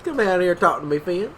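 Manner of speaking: high mock New York mom, rising at the end; mom's New York accent. Friend mimicking Finn's mom summoning him, high New York accent. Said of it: "it's better than my mom's accent".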